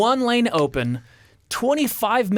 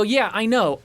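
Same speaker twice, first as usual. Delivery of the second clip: slightly raised, contained impatience; mildly impatient; 4 semitones higher than usual. Retold or imitated. Traveler answering the supervisor, mildly impatient. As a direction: acknowledge it with a touch of irritation.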